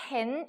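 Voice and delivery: "hen" with an e vowel; Japanese learners' mispronunciation. Retold or imitated. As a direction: imitate the mistaken "hen", e instead of uh. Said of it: "이렇게 읽는 경우가 되게 많았어요".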